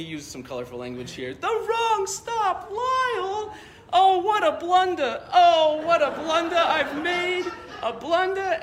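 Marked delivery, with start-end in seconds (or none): 1.3-8.6 put-on high, loud, frantic Chicago old man shouting; panicked Chicago old man crying out his mistake; thick Chicago accent. Old man in a thick Chicago accent panicking about the wrong stop. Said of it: "he's got this real thick, uh, Chicago accent".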